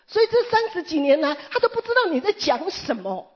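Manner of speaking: put-on urgent preacher's reassurance to a tearful old woman; fervent reassurance. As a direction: insist she is already forgiven, voice lifted high.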